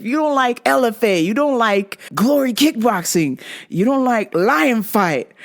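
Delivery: driving, repetitive roll-call; rhythmic list rant. Acted. Host warning off non-fight fans, rhythmic list delivery. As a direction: rattle off a chanted list, building gradually.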